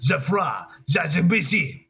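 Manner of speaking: very slow, fake French accent, seemingly unintended. Trying a German accent, the speaker slips into fake French accent. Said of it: "This sounds French".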